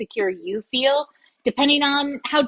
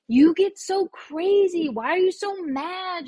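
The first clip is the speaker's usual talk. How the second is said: mock scolding; 7 semitones higher than usual. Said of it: "have been told".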